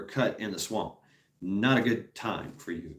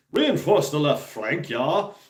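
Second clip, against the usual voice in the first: general barking orders, higher and louder; mock general's order; 4 semitones higher, 4 dB louder, slower than usual. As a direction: call it out like a general on his horse. General on horseback giving orders.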